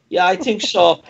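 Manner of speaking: high comic German voice; lightly hammed-up German agreement; German accent. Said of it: "He will do this in drive-thrus".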